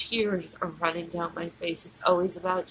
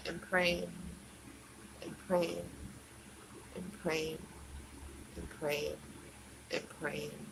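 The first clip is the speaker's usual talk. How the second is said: each repeat softer and lower, fading away; fading to a whisper; 5 semitones lower, 14 dB quieter than usual. Real, not acted. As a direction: let the praying die away to almost nothing.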